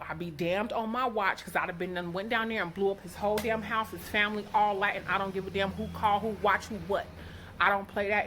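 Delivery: protective anger. Real, not acted. Mother vowing to protect her daughter from the boy, heated and loud. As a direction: build into a heated protective rant.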